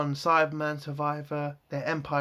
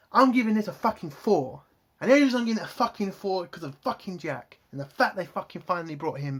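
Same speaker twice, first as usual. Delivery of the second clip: angry, punched opening that speeds up; pissed-off rant; 2 semitones higher than usual. Real, not acted. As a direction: hammer out the verdict in real irritation. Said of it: "is pissing me off".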